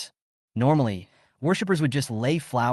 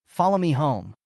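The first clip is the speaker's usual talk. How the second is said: a higher, firm cold command; cold order; 4 semitones higher than usual. A narrator's reading. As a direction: order her, no room to refuse. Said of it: "he coldly ordered".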